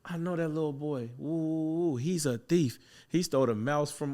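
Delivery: lightly voiced client spreading the word; retold tattling client. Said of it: "They like".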